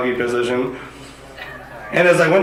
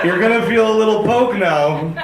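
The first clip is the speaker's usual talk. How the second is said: mock doctor; 6 semitones higher than usual. Mocking doctor's bedside manner.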